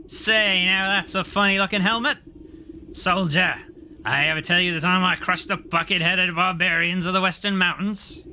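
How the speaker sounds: mocking bear. Bear mocks the helmet.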